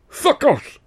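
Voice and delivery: high, loud snarled curse; spat curse. Acted. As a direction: hurl it back defiantly. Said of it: "he hissed again".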